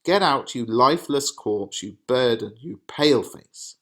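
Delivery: loud, mock furious father; angry father. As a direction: shout the insults at the daughter. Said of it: "paraphrased insults in father voice".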